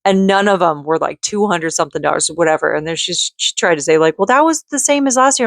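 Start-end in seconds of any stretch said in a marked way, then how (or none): 4.2-5.4 high mocking voice for the billing rep. Mocking the phone rep's excuse in a high voice. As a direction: parrot her excuse back, pitched way up.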